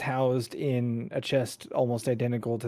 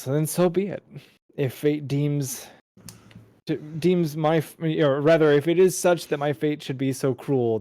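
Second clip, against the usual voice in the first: resigned shrug; 4 semitones higher, 5 dB louder than usual. Acted. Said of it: "She shrugs and says".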